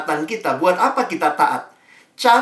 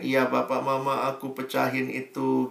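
timid confession; 3 semitones lower, 7 dB quieter than usual. Retold or imitated. Child confessing to parents.

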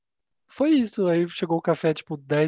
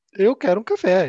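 raised voice, insisting on his coffee; a demanding customer starting to yell; retold shout; 4 semitones higher, 5 dB louder than usual. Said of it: "Ele começou a gritar". (cliente exigente gritando)

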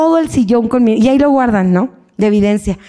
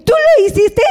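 curious question; 10 semitones higher than usual. Retold or imitated. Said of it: "Le dice".

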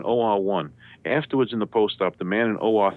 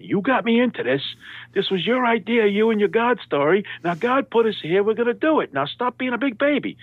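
high, strained mock yelling; exasperated high-pitched telling-off; imitating surgeon yelling; 13 semitones higher than usual. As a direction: re-enact a surgeon's angry scolding, pitched way up. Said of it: "he starts yelling at me".

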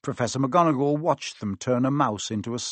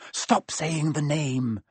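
whispered fear; 3 semitones higher, much slower than usual. A narrator's reading. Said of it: "said Ron in a terrified whisper".

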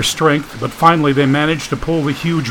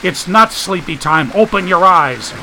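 firm insisting; 5 semitones higher than usual. Acted. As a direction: stress on not, firm and a bit higher. Dagan insisting.

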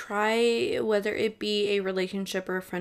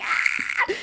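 fangirl squeal; 5 dB louder than usual. Pretend. Fangirl squeal at dream interview.

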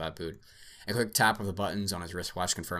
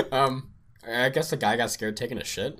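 giggling; 5 semitones higher, 7 dB louder than usual. Real, not acted. Giggling through the recap.

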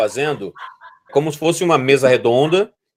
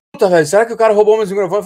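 worried; 7 semitones higher, faster than usual. Retold or imitated. Retold worried Vilela quote.

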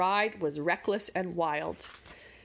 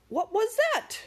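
straining to hear; 4 dB louder than usual. A narrator's reading. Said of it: "straining to hear".

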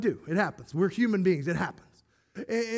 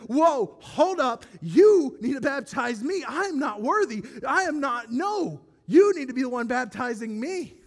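raised, urgent disbelief; louder, pleading protest; excited protest; 4 semitones higher, 4 dB louder than usual. Retold or imitated. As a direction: hold him back, insisting you're unworthy. John protests to Jesus, excited.

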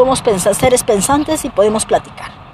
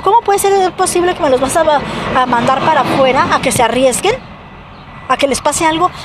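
indignant retold challenge; 4 semitones higher than usual. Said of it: "o sea, le digo".

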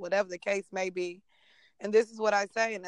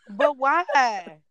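put-on whiny toddler; 4 semitones higher, 4 dB louder than usual. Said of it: "she'll be like".

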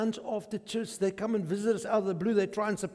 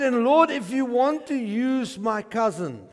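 laughing; 4 semitones higher, 5 dB louder than usual. Retold or imitated. Retelling cousin's prayer, laughing.

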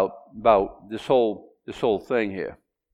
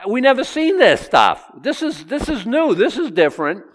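amazed; 10 semitones higher than usual. Acted. Preacher voices the amazed onlookers.

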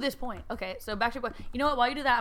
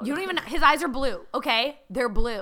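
mock fangirl fight; 3 semitones higher, 6 dB louder than usual. Mock fan quarrel.

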